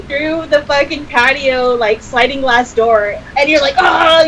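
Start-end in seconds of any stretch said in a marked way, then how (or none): 3.8-4.2 higher, louder imitated burst-in yell; retold ambush yell. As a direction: imitate someone jumping out with a yell. Retelling friends bursting in to scare.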